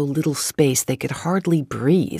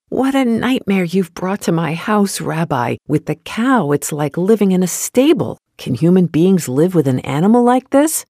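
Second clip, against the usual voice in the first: louder, higher wailing lament; wailing complaint; 4 semitones higher, 5 dB louder than usual. Acted. Poor man wailing to the rabbi about the cow. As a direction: wail out the misery to the rabbi. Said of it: "crying and wailing".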